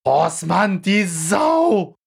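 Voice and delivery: high, jeering call at the fouler; angry shout. Retold or imitated. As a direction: yell abuse across the stands. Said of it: "rief mein Bruder".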